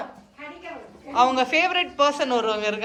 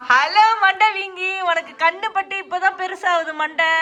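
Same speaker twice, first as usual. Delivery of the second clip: put-on baby talk; 4 semitones higher, 3 dB louder than usual.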